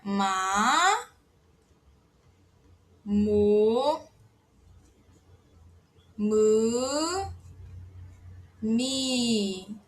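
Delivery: "ma, mo, mu, mi" with a long pause after each; Korean syllables read aloud. Shown as a demonstration. Teacher modeling Korean syllables for learners, spaced out. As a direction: model "ma, mo, mu, mi" one by one. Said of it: "Depois é o P".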